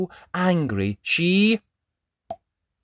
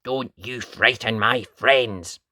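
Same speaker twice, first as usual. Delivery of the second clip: mild scolding; 3 dB louder than usual. Acted. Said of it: "she scolded".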